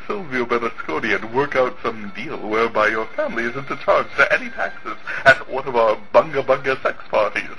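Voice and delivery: lightly put-on Italian accent; a hint of an Italian accent. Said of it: "best Italian accent".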